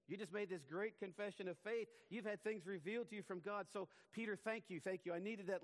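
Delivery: high, loud, hammed-up sarcasm; mock concession. Preacher mocking an imagined Jesus yielding to Peter, sarcastic and high. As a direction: play Jesus gushing thanks, clearly ironic.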